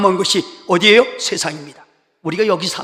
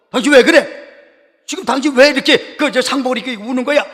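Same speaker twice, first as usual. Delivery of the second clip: higher-pitched, mock alarmed demand; retold startled question; 5 semitones higher than usual. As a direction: imitate a husband taken aback by his wife's mourning. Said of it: "깜짝 놀라서 루터가". (깜짝 놀라 따져 묻는 흉내)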